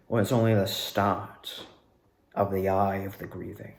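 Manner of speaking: a lightly hammed cartoon baddie bowing out; cartoonish villain. Closing her stage act from the box, mild cartoon villain. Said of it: "cartoonish kinda way".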